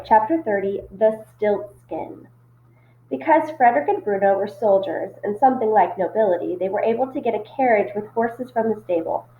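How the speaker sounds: steady read-aloud storytelling; story narration. A narrator's reading. Teacher reading a chapter to her students, storytelling voice.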